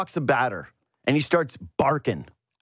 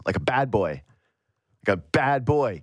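mock scolding; 4 semitones lower than usual. Real, not acted. Teasing the swearing manager.

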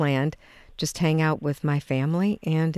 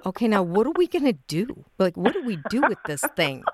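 mock bewilderment, higher questioning pitch; baffled new parents; 5 semitones higher than usual. New parents looking at their newborn, mildly baffled. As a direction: play mildly clueless and at a loss. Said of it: "looking at each other like".

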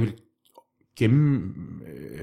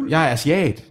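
raised, louder pretend cry; playful mock exclamation, pitched up; mock bedroom scream; 4 semitones higher, 5 dB louder than usual. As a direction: call it out as joke dirty talk. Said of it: "hun skal skrige".

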